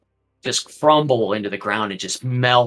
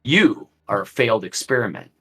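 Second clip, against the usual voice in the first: commanding Strahd. Acted. Strahd berates the abbot.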